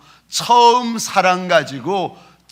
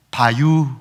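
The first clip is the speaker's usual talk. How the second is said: Chungcheong dialect; 4 dB louder, slower than usual. Retold or imitated. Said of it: "충청도 말은".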